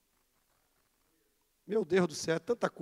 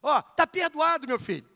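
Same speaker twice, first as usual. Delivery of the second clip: Abner Ferreira's little voice; 3 semitones higher than usual. Retold or imitated. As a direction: mimic the bishop once more, gently. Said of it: "Com aquela vozinha dele". (imitação leve da vozinha engraçada do bispo)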